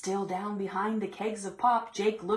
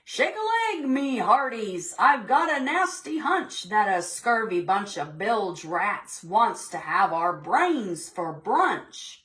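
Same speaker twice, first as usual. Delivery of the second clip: pirate captain; 2 semitones higher than usual. Acted. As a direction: bellow it out like a salty captain. Captain voiced in story.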